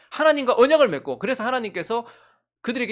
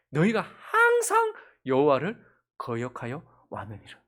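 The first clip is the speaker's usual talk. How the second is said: slow, measured Bible reading; deliberate pulpit recitation; solemn scripture reading; 5 semitones lower, 3 dB quieter than usual. Acted. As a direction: read it out gravely, drawing out key words. Reads scripture aloud to congregation.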